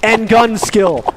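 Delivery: high, slow hype yell over the crowd; fighting game announcer. Real, not acted. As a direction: roar the highlight like an arena caster. Caster finishing ace call.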